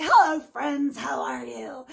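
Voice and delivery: mock-friendly greeting, punched on the opening; mimicked greeting. Mimicking a YouTuber's greeting she dislikes, mock-friendly. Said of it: "I don't like how you say".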